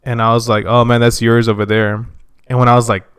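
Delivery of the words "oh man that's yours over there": "yours" said like "yeers"; accented "yours". Retold or imitated. Speaker retelling when he noticed his accent, "yours" as "yeers". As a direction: say "yours" with a narrow ee-er vowel, as yeers. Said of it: "when I first noticed that I had a, uh, an accent".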